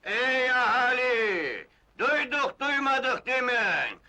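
town crier. Acted. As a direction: call out to the whole village. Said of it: "hemen ilan edin".

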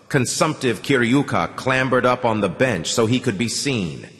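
ordinary delivery, nothing marked

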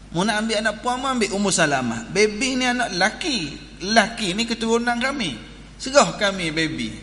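imitating a squabbling relative; retold family quarrel. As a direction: argue the family's claim to the baby. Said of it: "Duk main balah".

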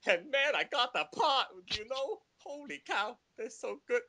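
put-on high-pitched, over-the-top Asian accent; hammed-up cartoon dad with an Asian accent; exaggerated Asian accent. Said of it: "I was, like, talking like this".

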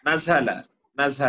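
নাজালা with a sibilant middle consonant, not a d; pronunciation model. Shown as a demonstration. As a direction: repeat নাজালা as a correction, z-like middle sound. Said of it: "আবার একটু উচ্চারণ করতে হবে".

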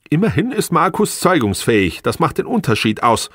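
high, spiteful comeback; venomous. A narrator's reading. Wife taunting husband about her lover, venomous. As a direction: hit back with venom, pitched high. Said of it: "giftete sie zurück".

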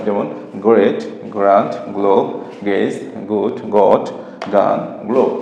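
"গ্রেট, গ্র্যান্ড, গ্লোব, গেজ, গুড, গড, গান" each with a hard g. Shown as a demonstration. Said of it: "Bangla গ এর মতো হয়". ("গ্রেট, গুড, গান"-এ জি-এর উচ্চারণ বাংলা গ-এর মতো)

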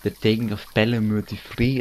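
imitated Scottish accent, lightly done. Gamer practicing a line to himself, imitated Scottish accent. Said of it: "with that Scottish accent".

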